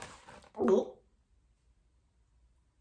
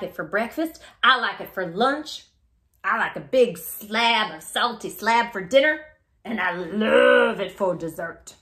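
a greedy little crocodile gushing over melon. Acted.

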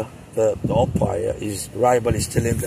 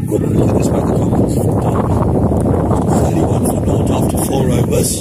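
loud score call; 5 dB louder than usual. Real, not acted. Score call over the crowd.

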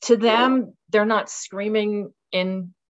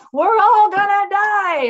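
high, loud, drawn-out doom scream; mock-screaming a doomsday warning on TV; panicked scream; 9 dB louder, slower than usual. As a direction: shriek it like the world is ending. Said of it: "screaming on television".

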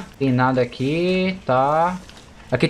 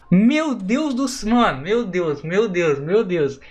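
near tears; 3 semitones higher, much slower than usual. Real, not acted. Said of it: "eu vou começar a chorar".

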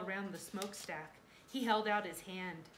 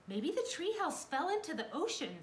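high, louder, worried voice; anxious guess; 10 semitones higher, 5 dB louder than usual. A narrator's reading. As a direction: voice Jack's alarm at a pitch. Jack guesses amid disaster.

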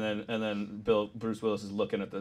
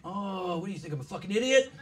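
high, quick retort in imitation of an action hero; mock-incredulous movie hero, rushed; Bruce Willis; 8 semitones higher than usual. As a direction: scoff it out, pitched up and fast. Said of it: "Bruce Willis goes".

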